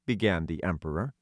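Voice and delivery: ordinary delivery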